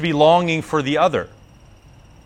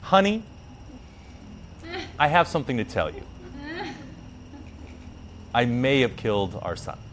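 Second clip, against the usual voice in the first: hesitant confession; 8 dB quieter than usual. Acted. Shiva confesses killing their son.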